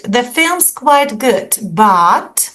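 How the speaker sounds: "quite good, but" with a hesitant fall-rise; qualifying tone. Shown as a demonstration. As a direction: hold back on "quite good, but", slowly. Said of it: "slightly modified opinion".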